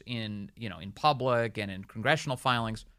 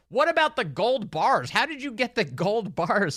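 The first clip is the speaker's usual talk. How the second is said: slow, raised taunting question; mock reporter shout; 7 semitones higher, 4 dB louder than usual. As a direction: lean on it like a heckling reporter. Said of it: "they shout out things like".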